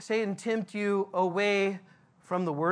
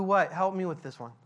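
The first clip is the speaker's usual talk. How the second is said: ordinary talk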